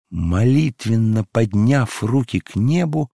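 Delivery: ordinary delivery, nothing marked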